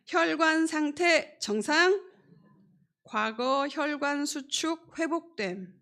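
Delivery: triumphant announcement. Real, not acted. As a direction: proclaim the good results word by word, overjoyed. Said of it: "제가 결과를 알려드리겠습니다". (기쁨에 차서 또박또박 크게 발표하듯)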